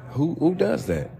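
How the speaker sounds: high, exasperated disbelief; incredulous. Real, not acted. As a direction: ask it as if it were unthinkable. Incredulous rant about protesters.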